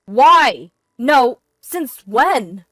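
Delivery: loud, high, halting shock; stammering confusion. A narrator's reading. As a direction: blurt it in pieces, caught out. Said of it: "he stammered, his voice shaking with confusion".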